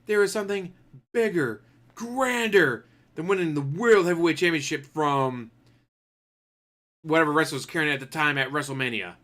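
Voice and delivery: lightly hammed-up, building the big reveal; grand challenge. New kid teasing the crowd on Raw, mock grandiose. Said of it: "Can you imagine on Monday Night Raw he comes out?".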